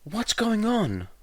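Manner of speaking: loud, high yell down the phone. Acted. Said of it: "Egon practically yelled".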